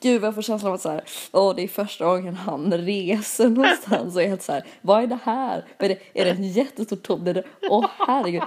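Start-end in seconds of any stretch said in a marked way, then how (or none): 4.8-8.4 mock wide-eyed awe. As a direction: play the starstruck first-time traveller. Härmar kompisen i taxfree. (lätt spelad förundran)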